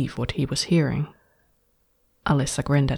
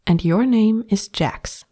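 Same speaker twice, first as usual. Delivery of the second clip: higher, slow, sweetly decisive; owner naming her pet; 7 semitones higher than usual. A narrator's reading. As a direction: bestow the name like a gift. Alyssa names her pet.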